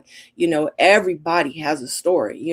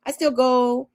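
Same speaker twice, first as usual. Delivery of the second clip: mother voiced; 7 semitones higher than usual. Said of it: "She was like".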